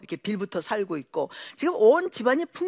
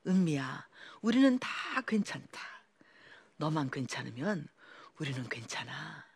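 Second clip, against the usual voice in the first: soft, lower, fading to a whisper; tender reassurance; 6 semitones lower, 8 dB quieter than usual. Retold or imitated. Mother-in-law reassuring her daughter-in-law, soft and tender.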